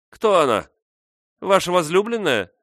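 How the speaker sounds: high, loud biting jeer; sarcastic question. A narrator's reading. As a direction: sneer it loudly at him. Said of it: "язвительно спросила".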